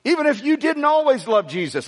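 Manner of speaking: second voice. Pretend. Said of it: "Those are great voices".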